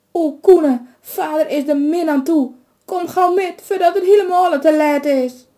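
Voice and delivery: high, loud, frantic plea; urgent pleading. A narrator's reading. Mother frantically pleading with her son about his father. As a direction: beg him to hurry before it's too late.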